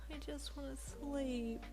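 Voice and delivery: slow, soft, exhausted moan; tired groan. Acted. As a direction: drag it out wearily. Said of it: "you groaned".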